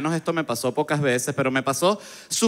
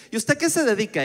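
landlady's question; 7 semitones higher than usual. Acted. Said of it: "Ella me dijo al final de la conversación".

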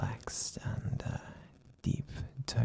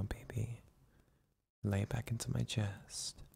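relaxed ASMR whisper. Acted. Boyfriend whispering his partner back to sleep, hushed and soothing. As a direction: lull him to sleep in a hushed, tender murmur. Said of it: "use a more relaxed and deep tone of voice".

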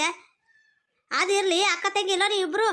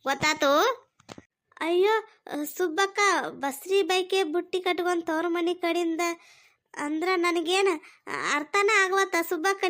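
lightly voiced kind older woman; 4 semitones lower than usual. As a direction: gently reassure her like a mother. Subbakka comforts pregnant friend.

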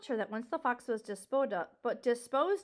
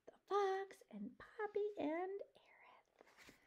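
whispering; 6 semitones higher, 10 dB quieter than usual. Real, not acted. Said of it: "reads picture caption aside".

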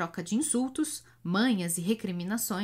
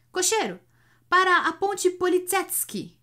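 higher, louder muffled call; muffled shout; 10 semitones higher, 7 dB louder than usual. A narrator's reading. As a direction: call out to the cabman. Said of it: "grita o corcunda com a voz surda".

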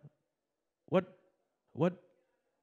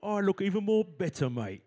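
Cockney voice; 5 semitones higher than usual. Shown as a demonstration. Host demonstrates a line for the audience, Cockney voice. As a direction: say it like a Cockney geezer. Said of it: "in a Cockney voice".

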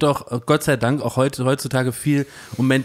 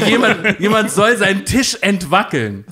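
rumschreiend; 4 semitones higher, 3 dB louder than usual. Retold or imitated. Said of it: "dass er rumschreit".

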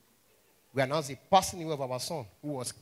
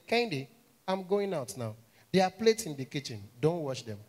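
mama says the opposite of what she means; mother's warning. Retold or imitated. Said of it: "Mama go tell you".

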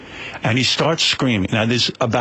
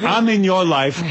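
cheeky Benji; 6 semitones higher, slower than usual. Retold or imitated. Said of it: "Benji says to Tracy".

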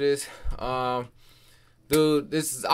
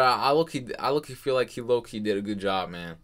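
talking around a retainer; slightly lisped retainer speech; wearing a retainer; 3 semitones lower than usual. Real, not acted. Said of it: "I can't talk with these retainers".

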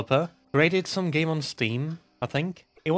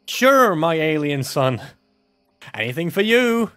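mock mother. Voicing mother answering child.

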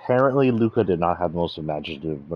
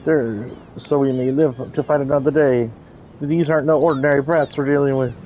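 louder, higher blustering thug; gruff henchman voice; 6 semitones higher, 4 dB louder than usual. Acted. Henchman urging his boss to retreat, blustering thug voice. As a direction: bluster like a cornered lackey.

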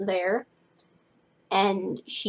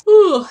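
loud, high yawning ooh; yawned "ooh"; 10 semitones higher, 13 dB louder than usual. Acted. Cleo shuffling toward her friends, yawning. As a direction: let out a voiced mock yawn. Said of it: "Cleo yawned".

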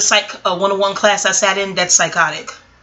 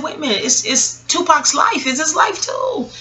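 higher, half-acted inner monologue; lightly voiced mother talking herself around; retelling Afeni Shakur; 4 semitones higher than usual. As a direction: argue it out with yourself, voice lifted. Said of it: "She said".

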